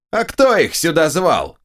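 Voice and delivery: high shrill retort; shrill ogre voice. A narrator's reading. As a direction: squeal it back reasonably. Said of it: "возразил мне визгливый голос".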